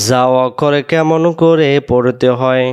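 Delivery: জা অক্ষর কেমন করে পড়তে হয় said slowly and loud; slow dictation. Shown as a demonstration. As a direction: dictate the rule clearly. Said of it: "teacher dictating rule slowly". (ধীরে ধীরে বলা)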